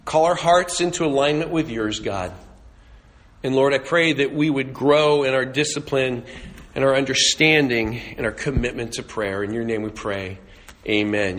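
reverent prayer voice, trailing down at the end; closing prayer. Acted. Pastor leading the church in prayer, reverent.

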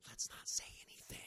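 hushed conspiratorial whisper. Retold or imitated. Disciples agreeing among themselves, whispered. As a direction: whisper it so nobody hears. Disciples deciding to keep quiet.

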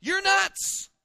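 high, loud exasperated outburst; incredulous disciples. Retold or imitated. Disciples telling Jesus he is crazy, high-pitched disbelief. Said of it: "it was a statement of".

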